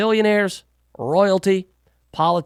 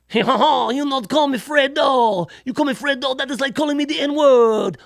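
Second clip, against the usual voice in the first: mock Italian tough guy; 6 semitones higher than usual. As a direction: play an offended wiseguy, over the top. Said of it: "So I'm all".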